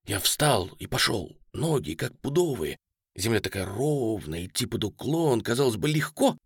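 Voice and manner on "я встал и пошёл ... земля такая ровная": ordinary delivery, nothing marked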